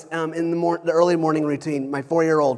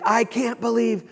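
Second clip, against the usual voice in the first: mock upset four-year-old, pitched up; upset child; 6 semitones higher than usual. Dad retelling his four-year-old's reaction, mock upset. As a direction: imitate a little kid's upset protest. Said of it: "he'd be very upset".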